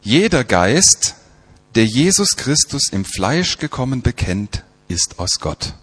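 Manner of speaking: weighty reading, each clause starting strong and falling away; scripture reading. Acted. Preacher reading John's test of spirits, emphatic recital.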